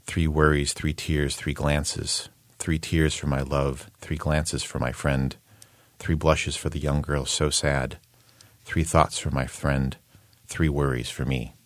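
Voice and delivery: measured list-like verse reading; even, unhurried poetry reading; poem recitation. Shown as a demonstration. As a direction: recite line by line, pausing between phrases. Reads out second translation.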